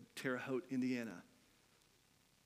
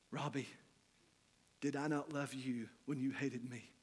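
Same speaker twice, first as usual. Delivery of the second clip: soft, gentle asking; kind question; 4 dB quieter than usual. Retold or imitated. The forgiving man asking Robbie, soft and gentle. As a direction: ask him tenderly, without blame. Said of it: "in his kindness".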